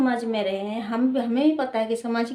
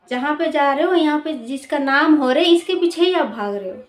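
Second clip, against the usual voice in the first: indignant scolding; 3 semitones higher, 6 dB louder than usual. Real, not acted. Scolding the media.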